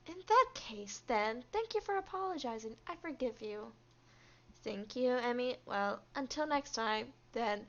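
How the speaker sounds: flat, even robotic monotone. Acted. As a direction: deliver it like a robot, no melody. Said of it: "Why am I giving her a robot voice?".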